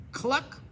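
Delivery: quick mock hen cluck. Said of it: "said the hen".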